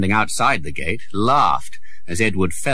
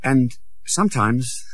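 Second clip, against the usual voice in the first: lightly voiced happy boy Tom; 6 semitones higher than usual. Tom's voice.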